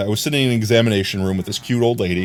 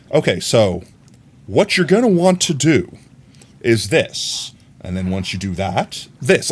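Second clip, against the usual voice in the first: drawn-out, careful steps; slow right down for the lady. Shown as a demonstration. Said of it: "I had to talk like that".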